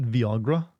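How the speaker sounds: "Viagra" said vee-AH-gra, rising as a question; Romanian-style pronunciation. Shown as a demonstration. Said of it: "I went Romanian there".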